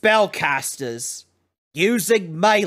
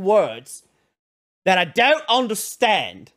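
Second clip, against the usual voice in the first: voiced dim student; 4 semitones higher than usual. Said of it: "And he goes".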